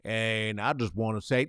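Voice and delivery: mock the guy playing devil's advocate. Mocking a white guy who plays devil's advocate, low and smug. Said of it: "That is the equivalent of like".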